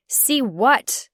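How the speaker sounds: indignant yell at a friend. Acted. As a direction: shoot it back as a yell. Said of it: "I yelled".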